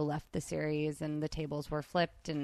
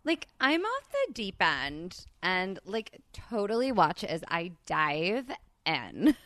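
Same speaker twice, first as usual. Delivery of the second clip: put-on Valley Girl; slower than usual. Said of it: "Let's do it like Valley Girls".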